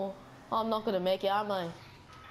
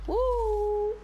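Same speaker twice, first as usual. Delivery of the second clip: high, loud cheer; excited whoop; 11 semitones higher, 4 dB louder than usual. Real, not acted. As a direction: let out a joyful whoop. Cheering at a jump.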